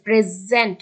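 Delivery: প্রেজেন্ট with a loud, punched first syllable "pre"; প্রেজেন্ট, front syllable stressed, second just set down. Shown as a demonstration. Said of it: "প্রেসকে একটু জোর দেওয়া হচ্ছে".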